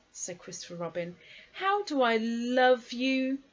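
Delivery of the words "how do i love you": slow, high, affectionate exclamation; fond boy. A narrator's reading. Christopher Robin to Pooh after the rescue, fond drawn-out exclamation. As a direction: draw it out lovingly, voice raised.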